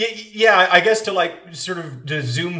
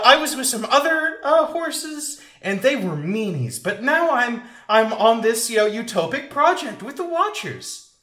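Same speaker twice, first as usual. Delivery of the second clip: put-on happy baby voice; 4 semitones higher than usual. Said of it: "just a big happy baby".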